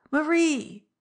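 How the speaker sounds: loud, high, desperate shout of a name; wild cry. A narrator's reading. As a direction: cry out wildly after someone leaving. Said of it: "he cried again".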